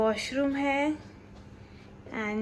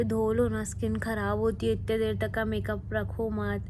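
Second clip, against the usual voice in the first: lovingly. Retold or imitated. Shanu coaxing her to wash her face, gently imitated. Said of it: "ऐसे एकदम प्यार से बोल रहे".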